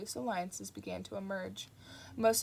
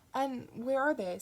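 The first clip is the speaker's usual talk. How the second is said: sweetly; 4 semitones higher, 4 dB louder than usual. Acted. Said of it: "said Aziraphale sweetly".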